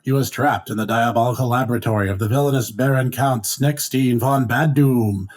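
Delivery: over-the-top recap narrator voice; dramatic narrator. Acted. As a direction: announce it like an old serial. Recap narration of a cartoon serial.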